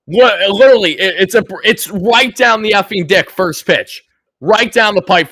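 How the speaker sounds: exasperated loud rant; angry rant. Real, not acted. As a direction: fume over the pitch. Fan fuming at first pitch.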